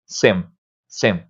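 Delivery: "sem" closed on a sounded M, low and soft; low "sem" with a consonant M ending; wrong literal M. Shown as a demonstration. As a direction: shut the lips on the M of "sem". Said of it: "Não é assim".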